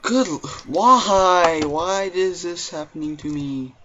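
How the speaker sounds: loud, high frustrated whine; whiny outburst. Real, not acted. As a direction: wail at the game in frustration. Frustrated gamer wailing at the game.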